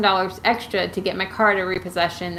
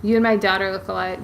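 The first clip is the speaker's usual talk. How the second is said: normal talking voice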